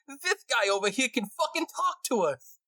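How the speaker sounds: very high-pitched excited rat voice; amazed rat. Acted. Rat telling its friends a stranger can talk, amazed. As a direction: squeak the astonishing news to your pals. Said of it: "He goes".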